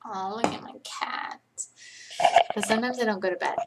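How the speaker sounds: usual speaking voice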